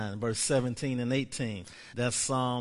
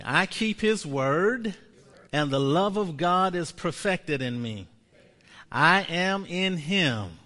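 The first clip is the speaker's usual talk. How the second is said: slow confession; 3 semitones higher, 3 dB louder than usual. Shown as a demonstration. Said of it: "Say this with me".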